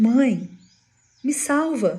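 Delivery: put-on high, loud, terrified crying child's voice.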